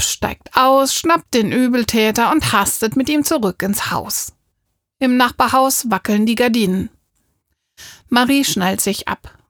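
ordinary delivery, nothing marked

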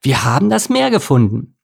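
loud, triumphant celebration; overjoyed. A narrator's reading. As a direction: whoop with delight. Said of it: "Überglücklich machte er".

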